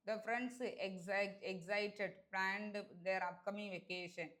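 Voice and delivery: very slow, drawn-out read of the sentence. Shown as a demonstration. Teacher reading the faulty sentence very slowly to students. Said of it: "teacher reads the wrong sentence".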